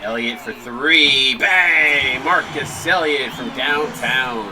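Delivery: loud, slow play-by-play shout; excited call. Real, not acted. Announcer calling a three-pointer, excited. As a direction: belt out the made three.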